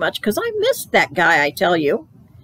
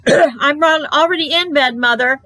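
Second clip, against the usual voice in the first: put-on high, louder little-kid reply; child calling back; 8 semitones higher, 4 dB louder than usual. A narrator's reading. Child answering mother from bed, high hurried call. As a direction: call out hastily from under the covers.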